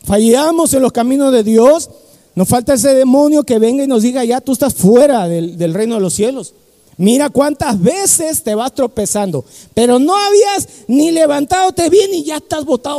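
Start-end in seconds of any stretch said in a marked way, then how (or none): 4.2-13.0 accusing demon voice. Retold or imitated. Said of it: "a esa voz diabólica".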